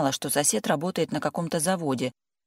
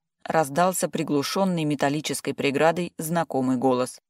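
ordinary delivery

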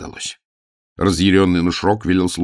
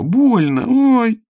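high, loud yelp of pain; crying out in pain; 7 dB louder, much slower than usual. Acted. Girl being hurt.

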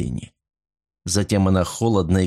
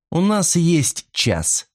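slow, cold and measured, drawn out; 9 semitones higher, much slower than usual. A narrator's reading. Mot coldly tells Silvia they have an hour, slow cold voice. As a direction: lay it out coldly, taking her time. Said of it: "холодно сказала она".

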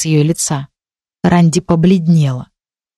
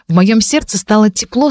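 ordinary delivery

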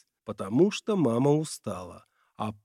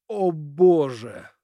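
despairing groan; 2 semitones higher, 5 dB louder, slower than usual. A narrator's reading. Father covers his face in despair.

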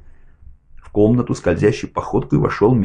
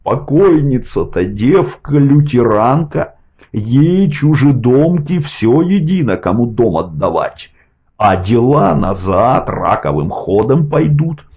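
raised, strained shouting; shouting, cracking into falsetto; 5 semitones higher, 4 dB louder than usual. A narrator's reading. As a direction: yell it, voice cracking high. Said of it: "срываясь на фальцет".

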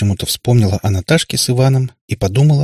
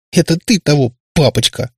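sobbing; 6 semitones higher than usual. A narrator's reading. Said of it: "всхлипнула Катерина".

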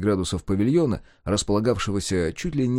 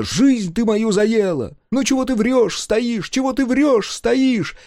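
much higher, louder screeching accusation; shrieking reply; 13 semitones higher, 4 dB louder, slower than usual. Acted. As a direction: screech back at the husband. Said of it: "визгливо летела в ответ".

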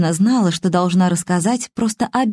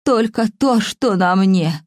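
put-on very old faint voice; slower than usual.

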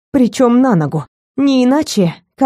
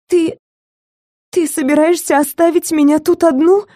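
higher, pleading, panicky; frightened plea; 8 semitones higher than usual. A narrator's reading. Captive begging kidnapper not to abandon her, frightened. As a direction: beg him not to leave her.

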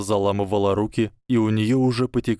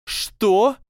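much higher, louder startled squeal; shrill shriek; 13 semitones higher, 5 dB louder than usual. Acted. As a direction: squeal in panic. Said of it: "взвизгнула Панси бледнее". (испуганный визг)

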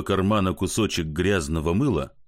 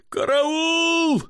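much higher, screaming for help; terrified cry for help. Acted. Drunk comic screams for help in terror. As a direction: scream as if being killed. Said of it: "закричал он".

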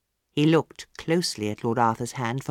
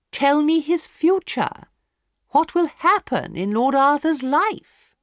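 higher, louder, slow demanding lady; impatient hostess; 12 semitones higher, 5 dB louder, slower than usual. A narrator's reading. Hostess demanding the palmist tell the future, impatient. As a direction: insist on an answer.

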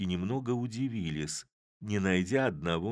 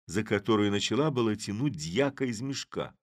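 ordinary delivery, nothing marked

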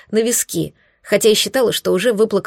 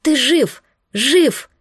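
higher, jubilant shout of relief; joyful cry; 5 semitones higher, much slower than usual. Acted. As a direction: cry out in disbelieving joy. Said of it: "я закричала". (ликующе, громко)

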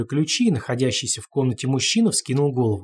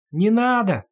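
much higher, louder desperate cry; tearful repeated plea; 9 semitones higher, 4 dB louder, slower than usual. A narrator's reading. The captive repeats his plea in tears like a broken record. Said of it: "как в заезженной пластинке повторил Хаджа".

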